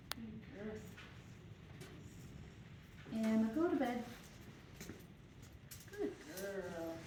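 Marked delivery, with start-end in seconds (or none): 0.1-0.7 soft, lower murmur of praise; low hushed praise. Real, not acted. Trainer praising a wound-up dog, low and hushed. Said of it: "keeping my tone low and almost hushed". 5.9-6.9 soft, lower murmur of praise; low hushed praise. Real, not acted. Trainer praising a wound-up dog, low and hushed. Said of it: "keeping my tone low and almost hushed".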